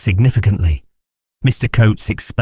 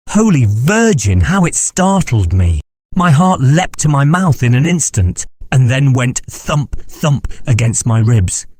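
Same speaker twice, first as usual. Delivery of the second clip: higher, excited retold fright; startled fright; 5 semitones higher than usual. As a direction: relive the scare. Teller relives his fright.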